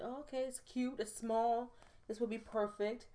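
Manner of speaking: high little voice of a pleased shopper; retold pleased musing. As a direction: muse aloud in a high, easy voice. Acting out her pleased online shopping.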